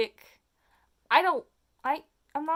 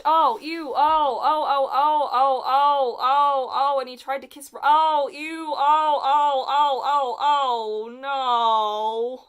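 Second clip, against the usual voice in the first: higher, louder groaning ohs of real disgust; cringing disgust; 4 semitones higher, 7 dB louder, much slower than usual. Real, not acted. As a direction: squirm through every oh. Horrified at kiss scene.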